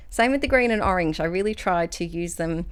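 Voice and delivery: slightly puffed, breathy between words; out of breath. Real, not acted. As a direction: talk while catching your breath. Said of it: "I'm a bit out of breath".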